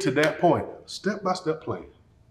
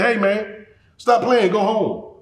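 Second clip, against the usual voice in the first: raised-pitch, mildly irritated scolding; angry brother; 5 semitones higher, slower than usual. Acted. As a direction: order the kid brother off, half in jest. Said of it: "His brother got angry and said".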